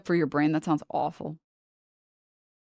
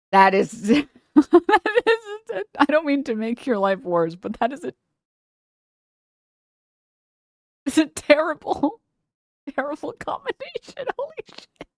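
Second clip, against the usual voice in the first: high, laughing disbelief; 9 semitones higher, 4 dB louder than usual. Real, not acted. Streamer reacting to a viewer's combo, laughing high. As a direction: squeal with laughter at how bad it is.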